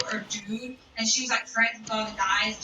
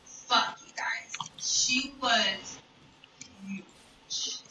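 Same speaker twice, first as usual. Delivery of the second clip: conspiratorial whisper; 4 dB quieter, much slower than usual. Real, not acted.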